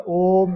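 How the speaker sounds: ओम with the ओ gently drawn out; briefly stretched demonstration of ओम; lengthened ओम. Shown as a demonstration. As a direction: hold the ओ of ओम a little before closing on म. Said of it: "उच्चारण अवधि जब बढ़ाई जाती है".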